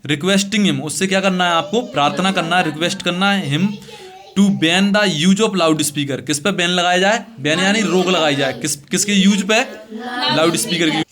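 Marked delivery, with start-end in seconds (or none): 4.3-6.2 very slow, word by word dictation. Shown as a demonstration. Teacher dictating a letter to students, very slow and measured. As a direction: spell it out slowly for the class to write. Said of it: "teacher dictating letter slowly".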